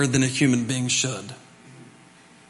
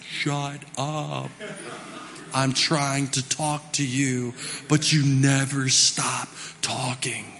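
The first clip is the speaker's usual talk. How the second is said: softer, slow mock voice; a hint of God; 4 dB quieter, much slower than usual. God to the praying person, a touch of exasperation. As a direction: let it land slowly, half joking. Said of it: "He's like".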